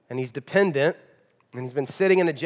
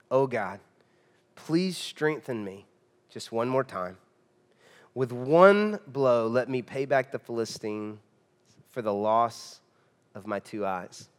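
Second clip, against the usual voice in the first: humble prayer; 6 semitones lower, 4 dB quieter than usual. Retold or imitated. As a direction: plead humbly to God, voice dropping away. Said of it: "Humble Samson".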